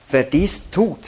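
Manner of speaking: "tut" pressed with a falling close; preacher spelling out "tut", stressed and falling. Shown as a demonstration. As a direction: lean hard on "tut" at the end. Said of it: "seht ihr wieder diese Betonung auf das Tun".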